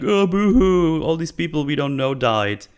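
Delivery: half-hearted fake crying; mock sob. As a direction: pretend to weep, dripping with sarcasm. Mocking the mourners' ceremony.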